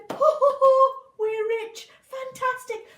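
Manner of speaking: high, loud joyful cheer; delighted mum. Acted. Mum cheering at the gold, high and loud. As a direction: whoop with delight.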